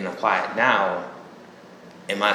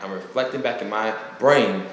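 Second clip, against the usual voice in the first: ordinary talk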